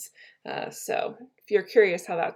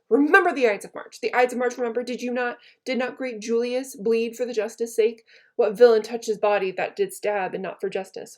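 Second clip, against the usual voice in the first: impassioned Shakespeare recital. Acted. Teacher reading Brutus's rebuke to the class, impassioned. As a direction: rouse him with the memory of Caesar.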